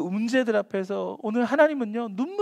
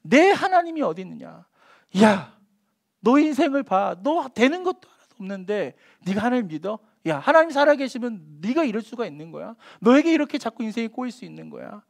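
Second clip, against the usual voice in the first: mocking taunt. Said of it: "뭐가 붙었냐면".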